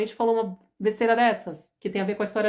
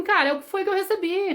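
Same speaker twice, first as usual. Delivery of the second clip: put-on casual future kid; 9 semitones higher than usual. Imitando as crianças do futuro.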